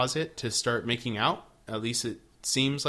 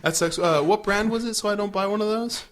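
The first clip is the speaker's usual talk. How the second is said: mock whiny reply; 9 semitones higher, 5 dB louder than usual. Mock reply to bad news.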